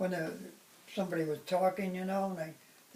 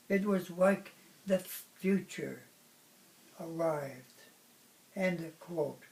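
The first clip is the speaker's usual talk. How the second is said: measured, declamatory reading with pauses between phrases; poem recitation; 4 dB louder, slower than usual. Acted. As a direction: read it out like a solemn public poem, phrase by phrase. Reads own poem aloud.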